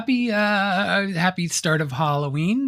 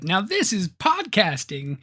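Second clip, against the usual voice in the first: Anakin impression; 7 semitones higher, much slower than usual. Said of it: "Insert Anakin clip".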